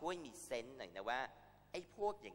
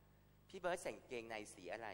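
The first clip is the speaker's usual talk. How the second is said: mock host question; 3 dB quieter, slower than usual. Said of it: "เขาถามว่า".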